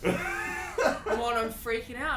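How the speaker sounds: hammed-up jitters; mock panic. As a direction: imitate a nervous friend pleading. Retelling nervous guest's plea.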